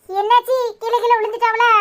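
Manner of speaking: alarmed surprise. Acted. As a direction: ask in sudden alarm at bad news. Shocked at news of a fall. (அதிர்ச்சியோடு பதறிக் கேட்பது)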